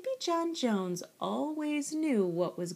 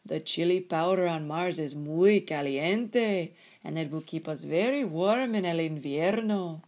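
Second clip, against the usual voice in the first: louder, weighty Spanish-flavoured voice; biggest little dog; 2 semitones lower, 5 dB louder than usual. A narrator's reading. Biggest dog explains to kitten, weighty and loud. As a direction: explain the plan with leaderly weight. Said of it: "began Don Diego".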